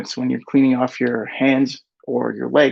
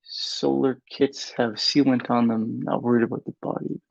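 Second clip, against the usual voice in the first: reading to oneself; 6 dB quieter than usual. Real, not acted. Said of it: "read out loud to myself".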